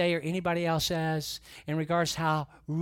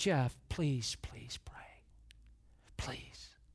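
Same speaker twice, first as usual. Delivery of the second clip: mock choked-up voice, much quieter; 4 semitones lower, 10 dB quieter than usual. Retelling what he said on the phone call, imitating someone choking up. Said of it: "he's choking up".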